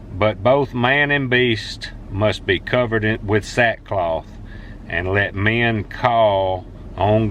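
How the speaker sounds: slow, measured reading of a Bible verse; slow devotional reading voice; scripture reading. Acted. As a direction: read the verse slowly and earnestly. Reads Bible verse aloud.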